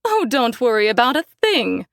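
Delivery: gushing, sugary mother's voice; a hint of a simpering society mom; fawning mother. Mother fawning over Conrad.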